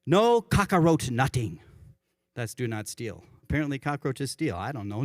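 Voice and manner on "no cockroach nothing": slow Hawaiian Pidgin, "nutting" for nothing; drawn out, savouring the Pidgin phrase. Retold or imitated. Pastor introducing today's commandment, slow Hawaiian Pidgin. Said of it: "That's the Hawaiian Pidgin for do not steal".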